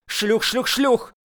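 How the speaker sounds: high, rising shrieked insult; shrieking. Acted. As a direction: she screeches the word at him over and over. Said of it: "завопила в ответ Еникеева".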